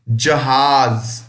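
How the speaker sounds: "जहाज" very slow, first ज as j, last ज as z; nukta contrast. Shown as a demonstration. Teacher showing both ज sounds in one word. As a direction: say "जहाज" slowly, j at the start, z at the end. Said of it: "जहाज में पहला ज बिना नुक्ते का होता है और आखिरी ज नुक्ता होता है".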